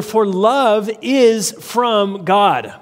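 slow, weighty stress on "love is from God"; very emphatic. Retold or imitated. Preacher reads the verse to congregation, slow and emphatic. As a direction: draw out "love is from God" word by word. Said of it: "in Greek it's very emphatic".

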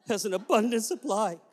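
a hint of the old man, slow with stress on abundant; slow old man's saying. Old man pushing the boy back down at the altar, slow and deliberate. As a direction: lean on abundant like the stern elder. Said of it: "And he would say".

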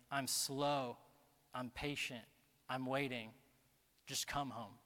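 low, softened, pausing after each phrase; gentle appeal. Acted. God calling the listener home, gentle appeal. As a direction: reassure them with quiet patience.

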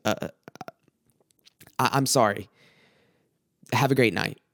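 hesitant, low, retold apology; calmer now. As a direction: imitate her calmed down, haltingly apologising. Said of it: "was more calm".

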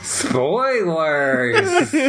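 laughing, shouted outburst. Real, not acted. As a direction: blurt it out mid-laugh.

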